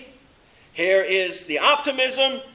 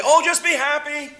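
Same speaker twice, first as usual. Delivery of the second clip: high, chirpy mock cheer; breezy optimist; 8 semitones higher, 3 dB louder than usual. Preacher mimics optimists brushing off sadness, chirpy mock cheer. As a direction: toss it off like a shallow optimist. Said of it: "the others say".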